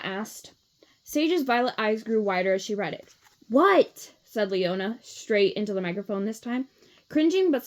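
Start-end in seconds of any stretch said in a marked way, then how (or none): 3.5-4.1 loud startled question. A narrator's reading. Leona into microphone.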